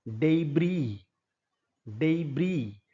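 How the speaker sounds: डेब्री said as "day-bree", with no s at the end; silent s. Shown as a demonstration. Teacher drilling debris for students, silent s. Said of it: "ये शब्द डीईबीआरआईएस".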